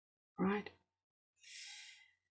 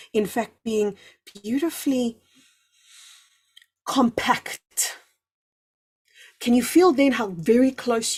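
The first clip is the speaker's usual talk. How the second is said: guided visualization. Acted. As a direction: lead listeners inward gently.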